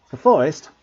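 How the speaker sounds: the forest? in dismay; shaken echo. A narrator's reading. Malfoy repeating the threat, rattled and loud. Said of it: "didn't sound quite as cool".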